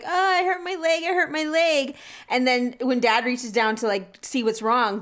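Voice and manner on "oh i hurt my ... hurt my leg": mock hurt whine. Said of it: "pretend you're crying".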